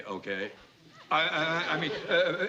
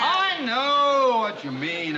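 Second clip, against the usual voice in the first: slow, higher, louder indignant reply; 6 semitones higher, 5 dB louder, much slower than usual. Acted. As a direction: drag it out, offended. Offended reply to hot-air jab.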